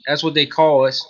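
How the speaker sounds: put-on lightly done country-yokel accent; put-on hick accent. Guest insisting it's his normal voice, light hick accent. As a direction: claim it as your own hick accent. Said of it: "that's not my actual accent".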